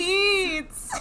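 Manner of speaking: high ghostly cry. Pretend. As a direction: wail it like a ghost. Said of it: "this is our ghost intro".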